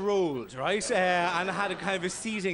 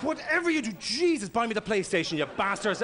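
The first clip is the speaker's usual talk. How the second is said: put-on pleading kid; 2 semitones higher than usual. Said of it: "look at their parents going".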